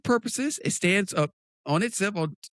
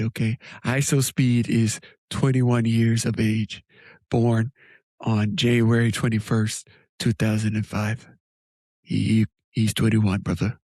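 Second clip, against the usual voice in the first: nasty voice; 6 semitones lower than usual. Acted. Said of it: "you kinda sound nasty".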